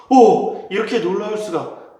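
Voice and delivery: high, loud astonished oh; amazed gasp. Acted. Moses astonished at his healed hand, high and loud. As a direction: marvel out loud at the miracle.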